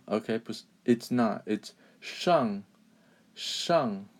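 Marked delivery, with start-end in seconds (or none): 2.0-4.1 "shang" with curled-tongue sh; emphasized pronunciation. Shown as a demonstration. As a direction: say "shang" carefully, falling tone. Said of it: "re-emphasize on the pronunciation".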